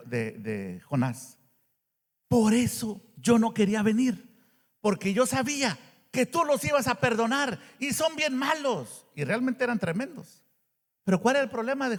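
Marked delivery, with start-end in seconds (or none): 2.3-9.1 Jonah's anger. Retold or imitated. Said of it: "el coraje de Jonás".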